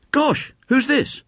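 high, drawn-out schoolboy astonishment; startled surprise. A narrator's reading. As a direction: gasp it out, high and slow. Boy startled by strange figure.

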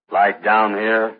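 very slow, deep demo voice. Acted. Asking partner if this is low enough, deep voice. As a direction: sink down and stretch it out slowly. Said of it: "Get down lower".

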